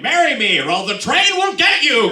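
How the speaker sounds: a hint of an unhinged high threat; deranged proposal. Joking about his deranged marriage vibe, mock-menacing. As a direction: tease it like a lightly mad suitor. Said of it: "this deranged, like".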